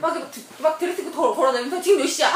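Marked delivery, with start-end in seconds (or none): 1.8-2.3 imitating an impatient bride, raised voice; louder, fretful retold question; urgent bride. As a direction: demand it in mock urgency. Bride fretting about late wedding start.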